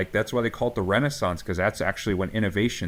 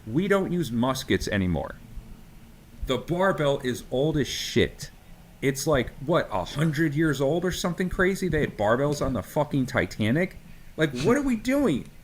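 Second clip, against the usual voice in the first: exasperated, higher-pitched plea; emotional rant; 4 semitones higher than usual. Real, not acted. Coach venting to interviewer about outdated barbells, emotional rant. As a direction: get worked up, pitch jumping on key phrases. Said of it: "sorry if I'm getting a little, uh, emotional".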